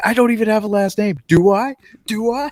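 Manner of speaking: panicking, voice very high. Quoting a movie character who realizes he has no last name, imitating a panicking character. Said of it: "he starts panicking".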